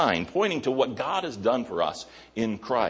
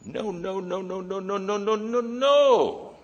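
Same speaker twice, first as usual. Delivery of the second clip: emphatic refusal; 12 semitones higher than usual. Retold or imitated. Paul rejecting the careless sinner, high and rising. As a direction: repeat it climbing higher and higher. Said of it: "Paul says".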